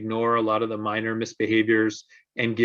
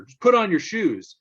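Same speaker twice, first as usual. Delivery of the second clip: higher, louder impatient yell; mock yell; 9 semitones higher, 4 dB louder than usual. Parent losing patience with the child, yelling. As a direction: snap the order out. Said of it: "Parent yells".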